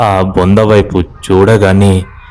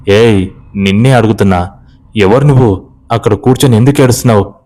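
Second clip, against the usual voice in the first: threatening; faster than usual. Acted. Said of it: "అని బెదిరిస్తాడు".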